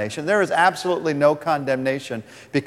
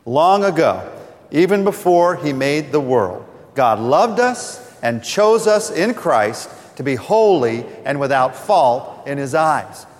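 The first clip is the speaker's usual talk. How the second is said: reading together aloud; slower than usual. Real, not acted. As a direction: read it out together, slow and steady. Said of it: "let's read this verse from Ephesians together".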